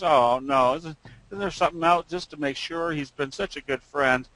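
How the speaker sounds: a mild mock plea for another check; pleading pet owner. Parakeet owner begs the vet for another check, lightly pleading.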